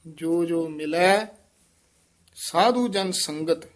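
full rest after ਸੰਗਤ; full pause after. Shown as a demonstration. Teacher marks the ਵਿਸਰਾਮ after ਸੰਗਤ. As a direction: stop fully after ਸਾਧੂ ਜਨ ਸੰਗਤ. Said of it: "ਇੱਥੇ ਵਿਸਰਾਮ".

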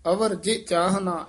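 rest fully on ਚਾਹਨਾ; full pause after ਚਾਹਨਾ. Shown as a demonstration. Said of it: "ਇੱਥੇ ਵਿਸਰਾਮ".

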